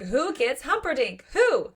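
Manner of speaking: high-pitched mock-outraged little boy; screaming little boy. Host quotes the boy in The Princess Bride, mock screaming. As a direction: imitate a child's indignant yell, rising in pitch. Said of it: "little boy in The Princess Bride who is screaming".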